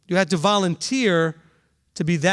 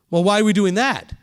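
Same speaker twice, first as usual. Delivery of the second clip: louder, pushy "Well, why are we doing that?" with falling end; challenging question; 4 dB louder than usual. Shown as a demonstration. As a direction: question the leader as if it looks stupid. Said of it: "It sounds just like a tone of voice thing".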